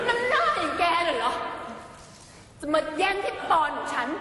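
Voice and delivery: sneering villainess. Acted. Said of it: "เอาหน้าเบี้ยวกว่านี้".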